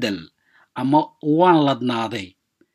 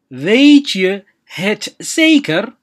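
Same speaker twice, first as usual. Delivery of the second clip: slow and drawn out; 4 semitones higher, 4 dB louder, much slower than usual. Shown as a demonstration. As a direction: stretch every word out slowly. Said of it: "teacher repeats phrase slowly". (si aad u tartiib ah u dheh)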